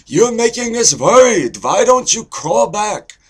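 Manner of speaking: loud, high, nagging Jewish parent; Jewish guy accent. Shown as a demonstration. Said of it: "so there's Jewish".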